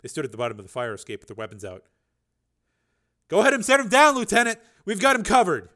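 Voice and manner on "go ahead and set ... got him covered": higher and louder shout from below; officer shouting up to the lieutenant; calling up. Acted. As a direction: call up to the fire escape.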